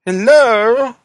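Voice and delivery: high, distant hello from outside; muffled voice behind a door. Acted. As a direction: call faintly from the other side. Visitor calls from behind door.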